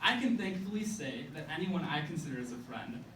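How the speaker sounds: measured spoken-word recital with punched phrase openings; slam poem. Acted.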